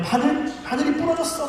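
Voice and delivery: very high-pitched comic dismay; mock lament. Recruit with a broken needle, high mock lament. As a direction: imitate a recruit wailing lightly over a mishap. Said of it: "막 이러면서 막 탄식하고".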